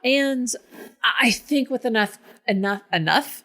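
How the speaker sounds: talking around retainers; lisping through a retainer. Shown as a demonstration. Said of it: "that's not gonna work for acting".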